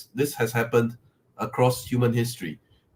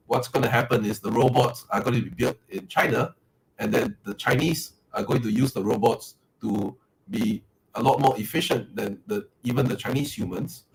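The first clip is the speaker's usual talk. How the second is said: robot voice. Real, not acted. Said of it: "your mic makes you sound like a robot".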